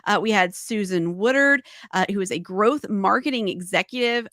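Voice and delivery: lightly played auctioneer rattling off names; a hint of an auctioneer listing lots. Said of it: "auctioneering voice ready".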